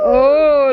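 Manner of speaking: cow moo. Shown as a demonstration. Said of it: "like that".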